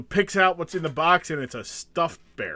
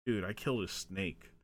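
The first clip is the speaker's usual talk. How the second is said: mock distraught; 6 semitones lower, 10 dB quieter than usual. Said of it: "I was like".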